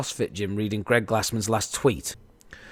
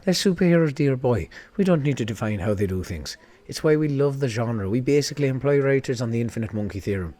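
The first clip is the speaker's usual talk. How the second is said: put-on Irish accent; 2 semitones higher than usual. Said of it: "Amazon's Irish for some fucking reason".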